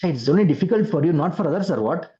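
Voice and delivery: mocking, fast and high; sarcastic king. King mocks the palanquin carrier, sarcastic. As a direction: jeer at the tired carrier. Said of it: "That was the sarcasm".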